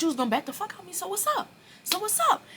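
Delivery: very high, loud dare; loud, high-pitched call to fight; retold fight challenge. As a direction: yell it at him, spoiling for a fight.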